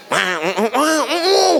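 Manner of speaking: high, laughing mock squabble; laughing mock argument; laughing quarrel noise. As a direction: babble like a fight while laughing.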